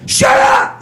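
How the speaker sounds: sudden high yelled shut up; a high squeaky mock yell; mock shout. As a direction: snap it like a heckler.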